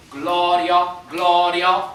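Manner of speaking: Gloria spoken loud, accent on the first syllable; teacher's model. Shown as a demonstration. Teacher models the word Gloria for choir, loud and accented. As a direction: say Gloria loud, leaning on GLO. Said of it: "repeat this first word".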